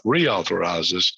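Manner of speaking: "reauthorizes" drawn out slowly, each syllable leaned on; slow down and lean hard on "reauthorizes"; stress on reauthorizes. Shown as a demonstration. Host stressing the bill's key word to listeners, slow deliberate "reauthorizes". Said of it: "put a little emphasis on the word reauthorize".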